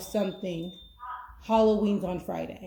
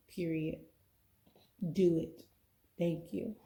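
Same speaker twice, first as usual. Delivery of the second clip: retold prayer; slower than usual. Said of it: "I did a different prayer".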